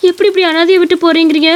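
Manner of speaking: lightly voiced, pleading wife; distressed wife. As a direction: protest being left alone with the baby. Wife protests being left alone. (கலங்கிய மனைவியின் கெஞ்சல்)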